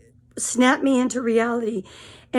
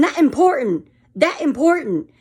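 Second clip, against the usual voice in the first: mimicking her emphasis; 3 semitones higher than usual. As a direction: hammer that important like she did. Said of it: "I'm trying to mimic her".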